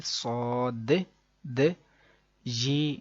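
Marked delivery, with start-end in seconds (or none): 0.0-1.6 صاد with the د released in a little echo; bounced final D. Shown as a demonstration. Teacher points out the sound made, echoed د in صاد. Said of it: "یہ ایک sound نکالا میں نے".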